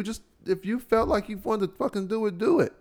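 normal talking voice

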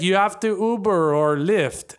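slow, loosely imitated Russian accent; muddled Russian accent. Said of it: "he sounds German or Brazilian".

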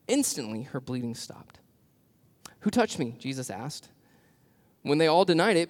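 proclaiming the gospel text; scripture reading. Acted. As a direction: read the passage like a preacher at the pulpit. Reads Luke aloud to congregation.

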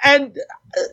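hammed-up promo rant; wrestling promo. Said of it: "doing my promo voice".

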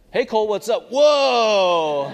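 loud, high startled shout; high, loud greeting shout then a yelp; kid calling out. Retold or imitated. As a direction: holler it like a kid barging in. Neighbor kid bursts in calling out.

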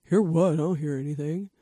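hint of a low bro voice; deep guy voice. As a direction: play the buddy as a mock deep-voiced dude. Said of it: "me trying to do a deep guy voice".

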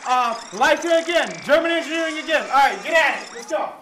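fuzz distortion on the mic; blown-out, crackling hype intro; distorted audio. Real, not acted. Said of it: "I would like to apologize for the distorted audio".

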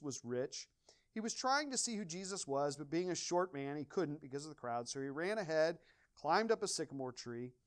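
emphatic, projected Bible reading; story read out with punched openings; scripture reading aloud. Acted. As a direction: read the passage out to a congregation. Reads scripture aloud to congregation.

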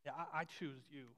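soft, low, tender reassurance; gentle voice of Jesus. Retold or imitated. Preacher voicing Jesus to a doubting believer, soft and tender. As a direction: speak softly, as Jesus choosing them. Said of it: "Jesus' voice saying".

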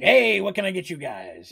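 a hint of a cheery shopkeeper greeting; lightly voiced big friendly merchant; friendly half-orc. Shopkeeper greeting customers, lightly friendly. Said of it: "he's very friendly".

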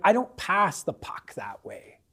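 whispered mock of a stubborn hockey player; stubborn teammate. Preacher imitating a player set in old habits, whispered. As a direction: breathe it like a grumbling new teammate. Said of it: "you're like".

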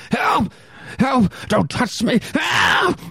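high panicked screams for help; terrified cries for help. Acted. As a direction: scream as if being grabbed. Victim attacked by monster.

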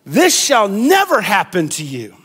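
hammed-up theatrical declaration; lightly theatrical, with a swoop on "never"; theatrical accent. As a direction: declaim it like a stage actor. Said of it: "in his best theatrical accent".

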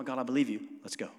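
firmer, eager "God, I believe you. Let's go."; ready to go. Retold or imitated. Pastor showing the obedient believer, eager and firm. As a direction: say it like you're already moving. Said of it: "No, no, no".

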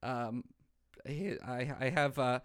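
subdued mock-German, handing over credentials; hopeful auditioner keeping the German accent. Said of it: "if I had a German accent".

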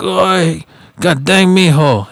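mock-calling a nephew from afar. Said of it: "he called me from a distance".

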